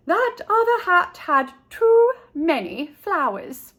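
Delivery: a chirpy Missus Peacock sing-song farewell; high fluttery lady. A narrator's reading. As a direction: trill it like a fussy, delighted lady.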